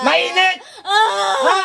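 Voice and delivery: high, forceful challenge; confrontational demand. Real, not acted. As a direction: fire it at the sufferer, pitched high. Healer confronts patient crying in pain.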